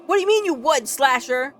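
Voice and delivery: real surprise at what chat said; startled what-do-you-mean; surprised. Real, not acted. Reacting to a chat comment.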